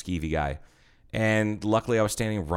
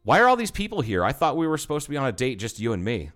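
cheesy flirt; 5 semitones higher, faster than usual. Retold or imitated. Bartender flirting with a green-eyed woman, cheesy mock charm. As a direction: lay on the corny charm. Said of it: "and I was like".

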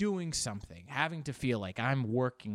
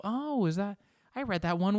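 higher-pitched, eager guest spotting a book; interested visitor; 8 semitones higher, 3 dB louder than usual. Acted. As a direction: play a visitor who is pleasantly surprised. Visitor spots an unread book.

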